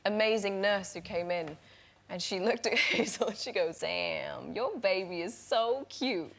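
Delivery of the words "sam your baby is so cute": soft, drawn-out Midwest-Southern drawl; Southern farm accent. Retold or imitated. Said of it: "the farm accent sounds a little bit Midwest and Southern".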